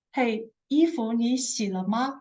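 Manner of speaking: gentle, kind asking wife; sweet wife. Acted. Sweet wife kindly asking husband about laundry, gentle. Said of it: "a very kind, sweet wife asking the husband".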